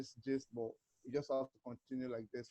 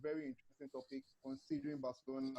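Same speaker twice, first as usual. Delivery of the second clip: hushed, barely voiced words; whispering; 11 semitones higher, 6 dB quieter, faster than usual. Real, not acted. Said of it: "why are you s-, whispering?".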